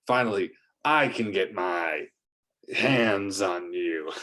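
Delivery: gleeful lizard villain taunting Captain Eagle; villain lizard rant. Acted. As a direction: gloat over the captured hero. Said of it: "went on a damn rant".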